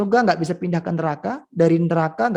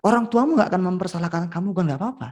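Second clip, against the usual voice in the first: slow, hushed coaxing voice of the devil, then a higher pitch; tempting devil; 4 semitones higher than usual. Acted. Devil coaxing people to tell small lies, sly and slow.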